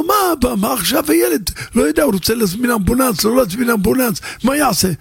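put-on a worried young father begging his dad; anxious son. Son on the phone pleading with his father, anxious.

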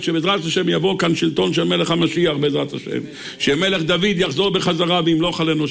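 ordinary talk, nothing marked

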